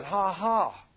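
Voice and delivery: spoken, scornful ha-ha; mocking fake laugh. Angel of death laughs at the grumbler, mocking. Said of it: "he just laughs at you".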